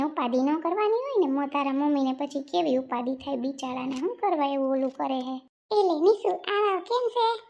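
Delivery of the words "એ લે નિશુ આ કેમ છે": welcoming aunt. Acted. Aunt welcoming Nishu at the door, cheerfully calling out. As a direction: greet her warmly from across the room.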